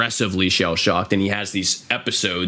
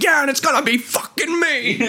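imitating Johnny. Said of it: "he's like".

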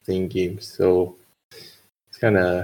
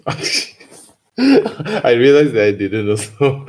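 slow, laughing admission; 3 semitones higher, slower than usual. Real, not acted. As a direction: giggle it out.

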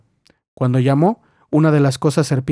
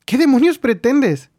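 higher, slow outraged question; angry demand; 10 semitones higher than usual. Acted. Lil confronts George after being slapped, outraged and slow.

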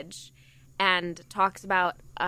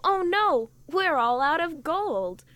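mock dismay; 7 semitones higher, slower than usual. Mocking the kingdom running out of gold.

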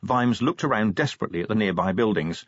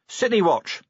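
raised-pitch, official announcement; announcing; 10 semitones higher than usual. A narrator's reading. Vimes flashing his badge at the coach driver, announcing. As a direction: announce it with authority. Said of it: "he announced".

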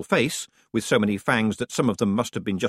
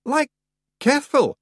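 helpful; 5 dB louder than usual. Acted. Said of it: "said Rob helpfully".

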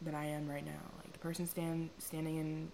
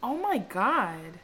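dramatic gasp; 3 semitones higher, 8 dB louder, much slower than usual. Real, not acted. Dramatic slow exclamation.

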